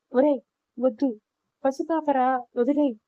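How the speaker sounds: a mother half-shouting at her son to stop; desperate shout. Retold or imitated. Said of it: "అని అరుస్తూ". (కొడుకుని ఆపమని అరిచే తల్లి, మోస్తరు అరుపు)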